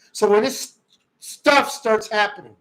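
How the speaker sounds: fired-up rant; worked up. Real, not acted. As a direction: rant it, getting riled up. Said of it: "I was really upset".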